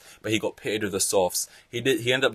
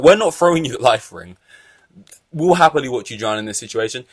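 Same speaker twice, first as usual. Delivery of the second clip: mock team taunt; 3 semitones higher, 6 dB louder than usual. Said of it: "them being like".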